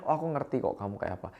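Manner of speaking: fast, offhand dismissal; hurried brush-off. Shown as a demonstration. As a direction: rush past their feelings. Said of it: "ternyata responnya". (jawaban cepat yang meremehkan)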